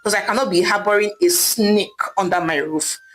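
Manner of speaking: jealous wife snapping at her sister; angry scolding. Acted. Wife ordering her sister out, mildly angry. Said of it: "Idara screamed angrily".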